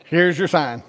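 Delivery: lightly imitated Southern accent; Bill Engvall. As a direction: deliver the catchphrase with a slight Southern accent. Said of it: "He's got a real Southern accent".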